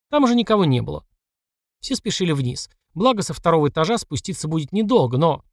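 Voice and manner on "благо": ordinary delivery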